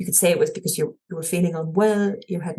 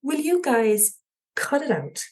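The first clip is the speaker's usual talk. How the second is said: put-on thick Cork accent, called out aloud; a Cork man telling unseen pranksters off, in broad Corkonian accent; broadest Corkonian accent; 5 semitones higher than usual. Lost in the woods, yelling at pranksters in Corkonian accent. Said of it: "in my broadest Corkonian accent".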